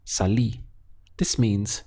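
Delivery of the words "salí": Salí with the accented í stressed; stress on final í. Shown as a demonstration. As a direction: lean on the last syllable of Salí, sa-LÍ. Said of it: "important to stress this accent over the I".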